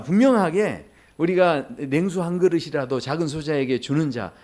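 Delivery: ordinary talk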